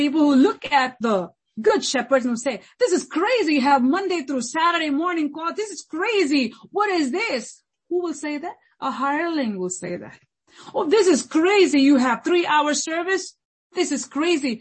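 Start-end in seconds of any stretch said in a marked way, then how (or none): 2.8-7.6 higher-pitched indignant critic; mock complaining. Acting out critics of good shepherds. 10.8-14.5 indignant higher-pitched critic; mock protest, starting high and loud; mock complaining. Acting out a complaining hireling.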